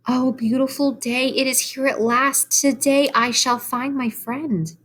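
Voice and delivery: a hint of a young pig greeting the dawn; eager pig. Voices Wilbur at dawn.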